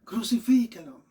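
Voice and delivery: retold cry of a hostile crowd; imitated crowd cry. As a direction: mimic a crowd's demand without full shouting. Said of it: "estaban más bien gritando".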